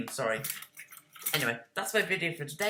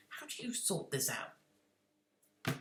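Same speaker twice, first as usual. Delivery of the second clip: slow, bewildered inner voice; drawn-out, baffled question to himself; exasperated thought; 2 semitones lower, 8 dB quieter, much slower than usual. Retold or imitated. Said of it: "and I'm just like".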